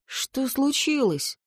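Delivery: gentle, slow concern; slow down, soften toward her. A narrator's reading. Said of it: "Голос Ли стал мягче". (мягче, с участием)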